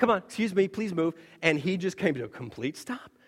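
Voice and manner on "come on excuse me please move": play-acted sweetly courteous, overly polite, laid on thick. Retelling honking at a stopped car, voicing the horn: put-on very polite tone. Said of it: "But a very polite".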